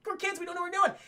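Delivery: high-pitched, clueless whine; mock the helpless kids in a high voice; dumb kids impression. Imitating the dumb kids for chat, clueless and high. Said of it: "the dumb kids, you know, they're like".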